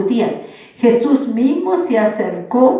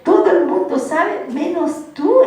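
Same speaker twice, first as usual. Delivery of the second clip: incredulous disbelief; 3 semitones higher than usual. Retold or imitated. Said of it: "como diciendo".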